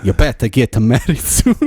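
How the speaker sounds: hesitant, hammed-up Mediterranean accent; badly faked Greek-Italian mother's accent. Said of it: "Just do an Italian Greek".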